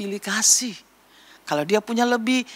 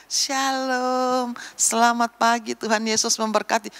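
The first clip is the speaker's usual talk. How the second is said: higher, lightly voiced child greeting; child greeter; 4 semitones higher than usual. Little child receiving church guests, lightly singsong greeting. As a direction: welcome guests like a small Sunday school child.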